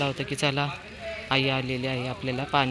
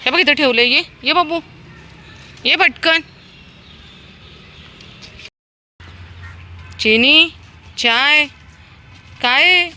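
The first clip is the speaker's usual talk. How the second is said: high, loud sing-song calling of pet names; high coaxing call; 10 semitones higher, 4 dB louder than usual. Real, not acted. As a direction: call the dogs in, bright and eager. Calling dogs by name. (लाडिक उंच आवाजात हाक)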